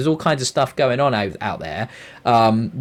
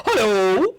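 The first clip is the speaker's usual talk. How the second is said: mock trader greeting; 9 semitones higher than usual.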